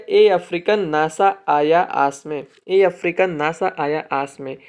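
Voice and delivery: mnemonic said slowly and clearly for students; slow dictation. Shown as a demonstration. Teacher dictating the continents trick, slow. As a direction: spell out the trick slowly, word by word. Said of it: "तो trick क्या है".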